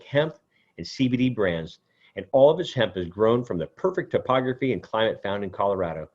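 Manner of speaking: measured, even sponsor read. Acted. Host reading a sponsor spot to listeners, smooth ad read.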